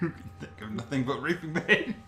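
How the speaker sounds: words slowed and shaken by laughter; laughing while reading. Real, not acted. Reading the lewd monster description aloud, laughing through it. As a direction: fight through the giggles.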